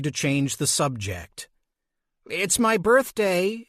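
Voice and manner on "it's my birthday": a little too loud. Acted. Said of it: "she said a little too loudly".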